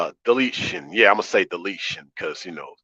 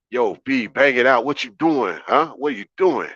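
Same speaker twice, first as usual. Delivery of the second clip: mock New York girl. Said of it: "gals be like".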